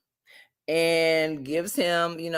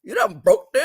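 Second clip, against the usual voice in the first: menacing threat; 3 semitones higher, 8 dB louder than usual. Retold or imitated. Jonah threatening LC, retold.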